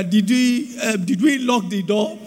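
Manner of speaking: slow, fretful wife asking about the house; wife fretting. Retold or imitated. Preacher voicing his wife fretting about the door and fridge. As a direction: voice the worried wife going over chores. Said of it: "My wife said".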